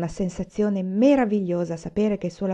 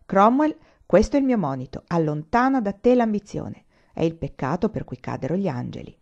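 solemn Shakespeare quote. Acted. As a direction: proclaim it like a stage warning. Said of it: "ciò che dice Shakespeare". (lieve tono declamatorio da palcoscenico)

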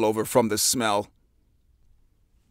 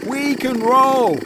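Tina's voice; 7 semitones higher, 4 dB louder than usual. A narrator's reading. Tina proposes rowing.

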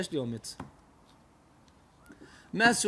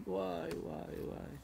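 lament; 10 dB quieter than usual. Acted. Discovering son's grave.

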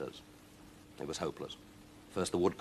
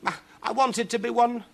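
high, loud despairing wail; 6 dB louder than usual. Acted. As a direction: wail it out, close to sobbing. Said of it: "she wailed".

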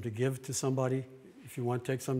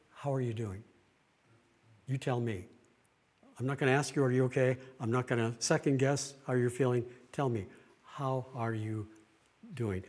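gentle rephrasing. Shown as a demonstration. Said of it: "I rephrased it".

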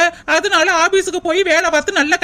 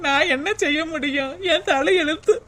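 quiet tearful lament; mourning her fate in tears; crying; 3 dB quieter than usual. Acted. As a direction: sob out her fate softly. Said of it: "அழுகாதடி, அழுகாத".

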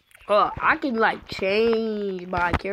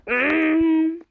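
high-pitched held hum; attempted Freddy noise; 6 semitones higher, 4 dB louder than usual. Shown as a demonstration. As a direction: hum it high, imitating a game character. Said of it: "No, not like that".

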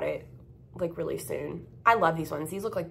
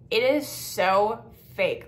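slow, louder, fed-up emphasis; drawn-out disgust; 4 dB louder, much slower than usual. Real, not acted. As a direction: drag out every word in contempt.

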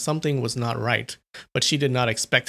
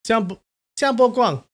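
higher, shouted name; shouting; 9 semitones higher than usual. A narrator's reading. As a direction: shout after him. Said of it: "Chu Feiyan shouted".

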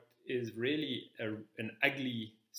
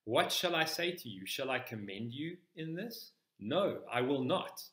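P=A; indignant rebuke; 3 semitones higher than usual. Retold or imitated. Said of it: "Paul's response to this is indignation".

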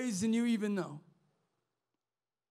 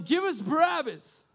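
imitated mob yelling, higher and louder; preacher voicing the mob, louder and higher; crowd shouting; 5 semitones higher, 4 dB louder than usual. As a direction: call it out like an angry crowd demanding Barabbas. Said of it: "the people start shouting".

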